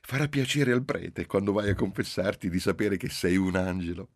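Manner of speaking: teasing, stifling a laugh. Acted. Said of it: "Soffocò una risata".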